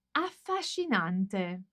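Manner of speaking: stretched out slowly, syllable by syllable; slow dictation. Shown as a demonstration. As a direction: read "affascinante" slowly and clearly, like dictation. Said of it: "Matera è proprio una città".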